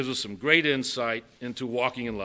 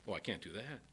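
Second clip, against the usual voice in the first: mock whiny objection; 6 semitones lower, 14 dB quieter, faster than usual.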